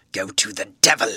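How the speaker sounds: loud, low menacing roar; tremendous voice. Acted. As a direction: thunder it at the intruder. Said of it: "in a tremendous voice".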